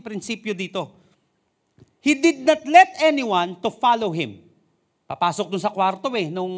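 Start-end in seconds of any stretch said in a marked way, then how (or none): 2.0-4.4 raised, slow preaching of the verse; loud slow proclamation. Acted. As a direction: lean into every word. (malakas at mabagal na pangangaral)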